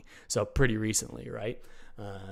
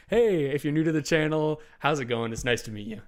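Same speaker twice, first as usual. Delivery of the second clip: upbeat channel intro; 4 semitones higher than usual. Shown as a demonstration. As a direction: greet new viewers like the show's opening. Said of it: "I'll say".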